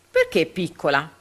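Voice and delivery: a touch of thunder in the tyrant's question; mildly booming, demanding tyrant. Acted. Tyrant Cum challenges the small tax, thundering. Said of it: "tuonò Cum".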